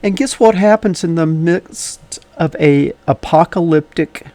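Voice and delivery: slightly wheezy from asthma. Real, not acted. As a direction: speak with a light wheeze. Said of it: "a little bit of a wheezy voice today".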